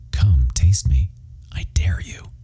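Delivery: whispered come-on from a billboard; seductive whisper. Acted. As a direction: tease them in a hush, daring. Billboard stare voiced as temptation.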